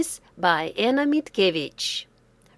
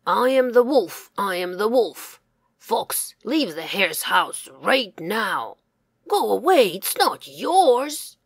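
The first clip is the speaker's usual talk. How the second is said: wolf; 6 dB louder than usual. Acted. Wolf threatens the fox.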